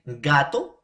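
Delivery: "Gato" opened with a fully closed, airless G; hard G stop. Shown as a demonstration. Teacher contrasting it with sapo, hard stopped G in "Gato". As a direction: demonstrate the blocked air on the G of "Gato". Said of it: "no sale aire".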